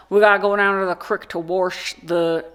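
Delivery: imitated rural Missouri accent. Vlogger quotes third-grade classmate, Missouri accent. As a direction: put on a Missouri kid's country accent. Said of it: "so lots of Missouri accents".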